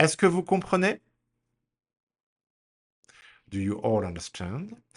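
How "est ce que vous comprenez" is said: quick and loud, "comprenez" rising high. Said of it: "repeat after me".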